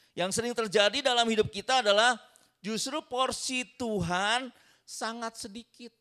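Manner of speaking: high and loud, pressing the point; fiery preacher's peak; preaching climax. Real, not acted. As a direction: proclaim it with full force.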